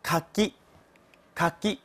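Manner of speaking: "かぎ" with a clearly voiced g. Shown as a demonstration. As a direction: let the g in "かぎ" buzz. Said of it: "这个是读作かぎ".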